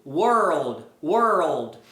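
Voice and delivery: "world" drawn out, low and falling, with a full L; respected L. Shown as a demonstration. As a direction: say "world" slowly as "uôr-old". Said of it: "O L é respeitado". (world devagar, com o L respeitado)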